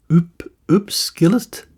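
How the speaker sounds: "Upskillist" tried slowly, rising like a question; careful, questioning "Upskillist"; tentative pronunciation. Shown as a demonstration. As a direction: sound out "Upskillist" uncertainly. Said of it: "I do not like to pronounce things incorrectly".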